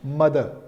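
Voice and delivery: "mother" closing on a schwa with no R; soft "mother", final R dropped; non-rhotic. Shown as a demonstration. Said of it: "No pronunciation of R".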